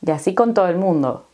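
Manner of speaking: y así con todo el mundo fast, S and L dropped, as kont oo el mundo; fast dropped-consonant Spanish; clipped Caribbean speech. Shown as a demonstration. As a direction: rattle it off dropping the S and L. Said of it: "Estamos eliminando la S aquí".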